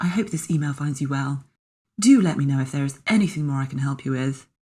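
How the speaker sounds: newsreader voice, as if reading a bulletin. Mocking own out-of-character emails, speaker reads one in a Radio 4 newsreader voice. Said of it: "I can only mock myself by reading it in the voice of a Radio four news lady".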